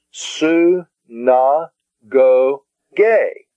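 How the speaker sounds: "Su, na, go, gay" as four separate beats; syllable by syllable. Shown as a demonstration. Teacher putting the word together as "Su, na, go, gay", syllable by syllable.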